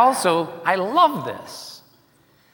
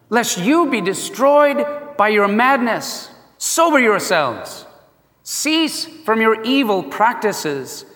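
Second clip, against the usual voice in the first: imagined Noah preaching. Acted. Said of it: "Something like this".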